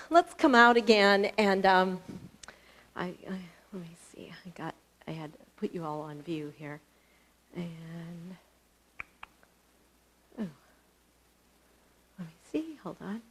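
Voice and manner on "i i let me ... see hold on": very soft, half-whispered to herself; off-mic fiddling with the call; low aside while fixing the view; muttered aside. Real, not acted. Muted aside while fixing the screen.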